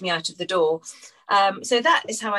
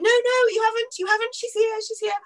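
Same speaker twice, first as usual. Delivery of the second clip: desperate insistence. Retold or imitated. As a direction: beg them not to choose another girl. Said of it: "And I went".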